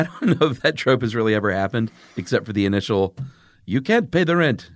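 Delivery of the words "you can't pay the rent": sneering panto villain. Acted. Melodrama villain bit.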